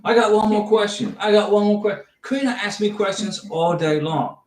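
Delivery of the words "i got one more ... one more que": a light touch of the rumpled TV detective, a bit louder; one more question, done lightly as the famous detective; Columbo impression. Host teasing about endless questions, lightly playing the detective. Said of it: "like Colombo".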